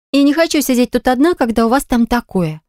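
pitched well up, pleading to come along; a lightly voiced eager young woman. Milana joins, pitched up.

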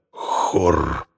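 low growl of a bear; growled name. Acted. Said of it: "прорычал".

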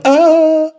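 high, loud sharp yelp; yelp of pain. Acted. Ludwig pinched by Laban, loud high yelp. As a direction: cry out when your tail is pinched. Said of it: "Людвиг закричал".

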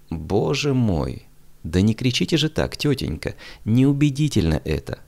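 ordinary delivery

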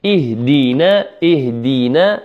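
اهدينا with light, thin consonants and vowels; light articulation. Shown as a demonstration. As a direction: say اهدينا lightly, no heaviness on any letter. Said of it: "كله مرقق". (نطق اهدينا مرققة كلها)

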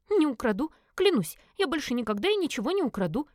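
high, heartfelt promise; Элис fervent vow. A narrator's reading. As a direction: swear it passionately. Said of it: "горячо заявила Элис".

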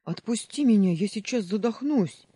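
high, loud panicked scream. A narrator's reading. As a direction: yell at the top of his lungs. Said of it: "он кричит во всё горло".

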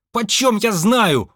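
high, drawn-out protest; exasperated exclamation. Acted. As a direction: cry it out high, fed up. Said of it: "воскликнула она". (возглас раздражения)

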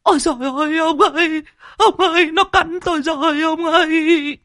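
put-on old woman wailing very high after a bite; startled cry of pain. A narrator's reading. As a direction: shriek to her husband that the snake bit her. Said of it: "trúng một cú đớp thì giật mình". (kêu thét hoảng hốt, giọng rất cao)

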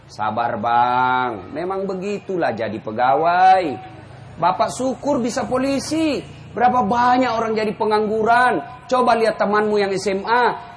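calm him like a patient wife; soothing wife. Retold or imitated. Wife comforting tired husband. (istri menenangkan suami, pelan dan lembut)

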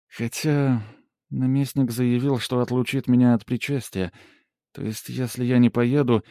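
lightly voiced peasant woman, rattled; fretting village woman. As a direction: talk herself in circles, then curse. Polina fretting aloud.

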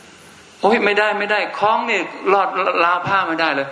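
high, slow, laughing put-on voice; mock the fussy amulet wearer while laughing; laughing mock fuss. Monk mocks the amulet wearer's fuss about the clothesline, laughing in a high put-on voice.

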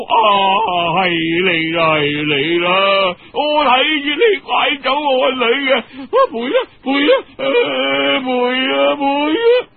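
grab him and scream the blame like a madwoman; frenzied high shouting, gabbling the demands; madwoman accusing. A narrator's reading. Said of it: "有個癲婆走入嚟".

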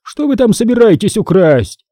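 put-on a suspicious old man's challenge; accusing old man. A narrator's reading. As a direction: shop owner accusing kids of theft.

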